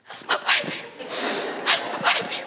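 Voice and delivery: tearful, voiceless squeak; choked-up proud whimper, badly overcome, acted; mock squalling. Mom by the fence as crowd claps, mock squalling. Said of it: "I'm just squalling".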